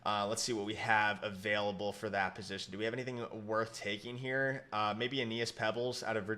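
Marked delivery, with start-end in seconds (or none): 4.7-6.3 talking with the hiccups; hiccuping between words. Real, not acted. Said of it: "I got the hiccups coming in here".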